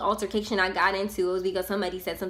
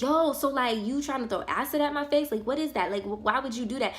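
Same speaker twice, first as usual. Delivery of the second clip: higher, agitated retold confrontation; spazzing; 5 semitones higher than usual. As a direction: fire off the questions in disbelief. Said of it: "I was spazzing".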